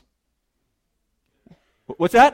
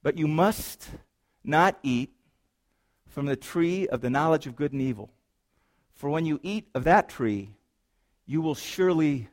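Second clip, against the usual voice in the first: loving warning; 3 semitones lower, 4 dB quieter than usual. Shown as a demonstration. Preacher rereads God's warning to his people, tender. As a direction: warn them like a caring parent. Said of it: "I would call it a loving, a loving warning".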